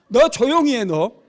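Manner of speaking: loud, high angry rebuke; re-enacted scolding. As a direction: act out telling a heckler off. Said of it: "막 내가 막 그렇게 호통치고".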